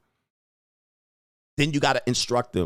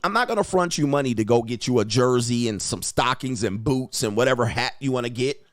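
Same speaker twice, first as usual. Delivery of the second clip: normal talking voice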